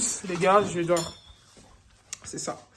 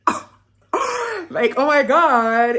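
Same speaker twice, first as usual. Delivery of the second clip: excited gasp; 5 semitones higher, 7 dB louder, much slower than usual. Retold or imitated. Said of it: "j'étais là en mode".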